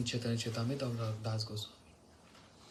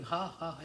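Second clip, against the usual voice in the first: spoken "ha, ha"; imitated laugh. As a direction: voice a mild mock laugh in words. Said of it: "he's laughing".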